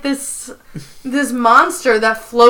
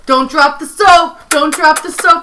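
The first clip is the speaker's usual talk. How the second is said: put-on slowed, mildly hammy New York accent; Prison Mike; 4 semitones higher, 3 dB louder than usual. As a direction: taunt lightly as a New York convict. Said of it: "really bad New York accent".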